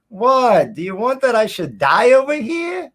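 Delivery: high, loud Jersey Jewish mother voice; Jewish New Jersey accent. Retold or imitated. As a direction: kvetch it like a Jersey mom. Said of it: "now I've got the whole".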